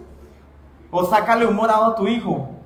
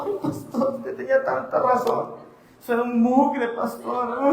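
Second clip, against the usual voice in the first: mock tearful whine; 4 semitones higher, slower than usual. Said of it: "después llorando".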